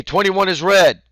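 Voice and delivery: high, loud, stretched-out call; sideline call. Shown as a demonstration. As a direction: call it out slowly to the team.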